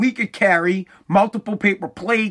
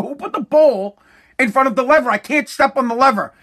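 got mad; 4 semitones higher than usual. Retold or imitated. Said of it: "I got mad".

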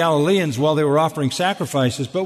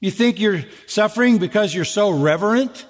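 higher-pitched sarcastic question; 4 semitones higher than usual. Acted. Job's friend doubting his reverence, sarcastic. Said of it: "That's sarcasm".

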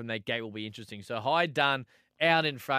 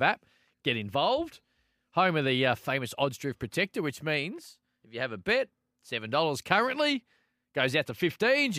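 upbeat, punchy sponsor read; hyped betting ad; 2 semitones higher than usual. Acted. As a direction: sell it like a radio ad. Host reads sponsor message.

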